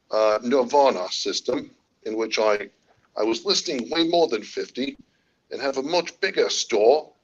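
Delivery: amateur Australian lilt; Australian accent. Acted. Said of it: "Next one has to be Australian".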